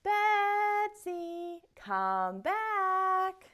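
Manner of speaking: high, loud call for Betsy. Shown as a demonstration.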